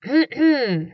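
сухо кашлянуть, привлекая внимание; деликатно прочистить горло у входа; сухое покашливание. Acted. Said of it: "сухое покашливание". (Гоу Шен у входа сухо кашляет)

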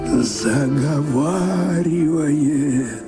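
normal talking voice

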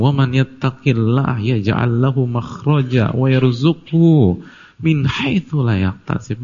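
slow, measured Arabic recitation; Quran recitation. Retold or imitated. Preacher quoting Allah's word to the congregation, slow recitation. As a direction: recite the verse, drawing out the syllables. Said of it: "Padahal Allah bilang".

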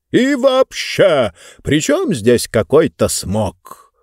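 scornful drawl. Acted. Speaker scoffs.

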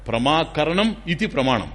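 slow, deliberate recitation of the sutra; slow recited definition. Shown as a demonstration. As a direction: spell out ప్రమాకరణం ఇతి ప్రమాణం word by word. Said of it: "ప్రమా అంటే జ్ఞానం". (నెమ్మదిగా సూత్రం చదవడం)

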